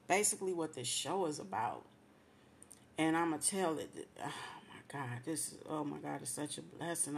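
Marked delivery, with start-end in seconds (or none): 4.2-7.1 overwhelmed with emotion. Real, not acted. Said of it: "I'm overwhelmed again, with so much emotion".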